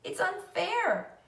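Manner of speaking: high, slow wail of unfairness; tearful protest. A narrator's reading. Fern to her father, slow tearful protest. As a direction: stretch it out, near tears. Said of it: "she cried".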